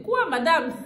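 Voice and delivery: high, loud shocked cry; surprised outburst. Retold or imitated. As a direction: blurt it out in disbelief. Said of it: "j'ai éclaté". (cri surpris, plus aigu et plus fort)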